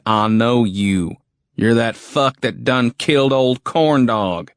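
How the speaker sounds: slow drawling rough soldier; sneering backwoods soldier; redneck soldier. Acted.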